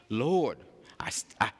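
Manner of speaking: breathy frightened whisper to God; whispered plea. Acted. Moses whispering his fear to the Lord. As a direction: shrink back and whisper the excuse.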